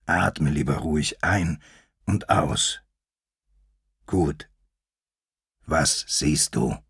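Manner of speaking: patient, calming instruction. Acted. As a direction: settle the young one down gently. Lion calms the young one.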